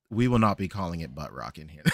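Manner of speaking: low, stern imitation of annoyance; mock-annoyed house rule, pitched low; retold annoyance. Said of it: "never seen him more annoyed".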